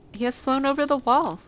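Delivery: put-on high, loud girl's exclamation; excited cry. A narrator's reading. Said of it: "Mary cried out".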